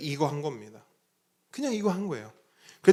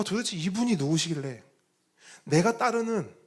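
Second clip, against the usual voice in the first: ordinary talk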